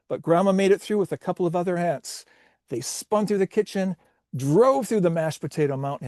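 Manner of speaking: animated play-by-play of a pileup; race commentary. Acted. Commentator following aunts through the house, animated play-by-play. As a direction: call the mishaps like a sportscaster.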